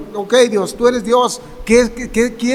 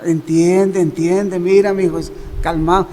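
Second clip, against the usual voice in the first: gentle fatherly plea; 5 semitones lower than usual. Retold or imitated. Jesus pleading gently with Saul, lower and tender. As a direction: coax him gently like a loving father. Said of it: "Cuando uno repite dos veces el nombre es como".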